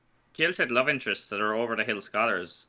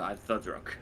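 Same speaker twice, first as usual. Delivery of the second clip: mock drunk excuse; 5 semitones lower, 10 dB quieter, slower than usual. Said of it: "I go".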